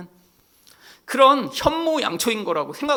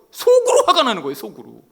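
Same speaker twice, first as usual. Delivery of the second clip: laughing; 2 semitones higher, 9 dB louder than usual. Real, not acted. Laughing about hidden anger.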